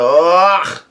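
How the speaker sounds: imitated strained cry; Luffy's yelled "ugh". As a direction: groan it out as a pretend yell. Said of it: "yells out".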